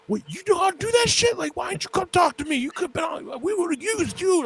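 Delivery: high, loud impressed coach voice; imitating the coach. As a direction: voice the coach, amazed and eager. Retold coach reacting, amazed.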